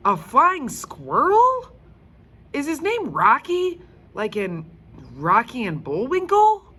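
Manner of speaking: a wide-eyed schoolboy question; excited boy. Acted. Frank asks about the squirrel.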